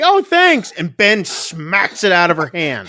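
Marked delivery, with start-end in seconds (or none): 0.0-0.7 retold high reaction. Man reacts as child hands drink.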